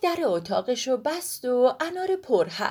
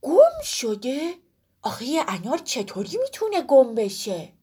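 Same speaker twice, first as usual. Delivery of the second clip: surprised; 3 semitones higher than usual. Acted. Woolak asks in surprise how a pomegranate gets lost. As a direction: puzzle over it in disbelief. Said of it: "با تعجب پرسید".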